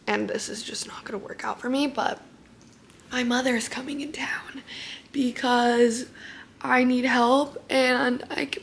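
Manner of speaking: soft, half-whispered talk through loose temporary teeth; keeping the voice down, mouth sore after surgery; hushed, barely talking. Real, not acted. Teeth falling out, can barely talk.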